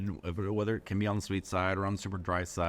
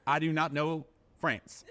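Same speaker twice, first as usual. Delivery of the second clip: snooty French waiter; 7 semitones higher than usual. Retold or imitated. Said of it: "they dismiss him and be like".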